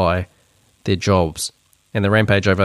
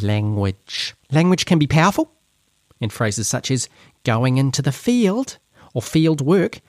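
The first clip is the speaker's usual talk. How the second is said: much higher, slow mocking read of the memo; higher-pitched voice; 6 semitones higher than usual. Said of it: "a higher-pitched voice".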